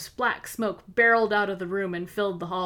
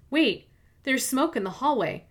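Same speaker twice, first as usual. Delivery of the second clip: startled, higher warning; alarmed; 5 semitones higher than usual. Acted. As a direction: sound the alarm. Noticing smoke in the hallway.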